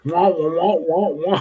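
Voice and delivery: droning wah-wah teacher voice; Charlie Brown teacher. Retold or imitated. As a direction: mimic the muffled cartoon teacher. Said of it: "Charlie Brown's his teacher".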